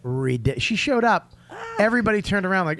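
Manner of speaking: ordinary delivery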